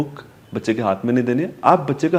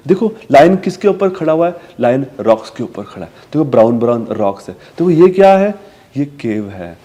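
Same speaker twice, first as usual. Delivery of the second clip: put-on talking to a toddler. Shown as a demonstration. Parent pointing at rocks and a cave for a child, sing-song. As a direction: ask and answer for the child. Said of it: "और चीज़ describe कर सकते हो".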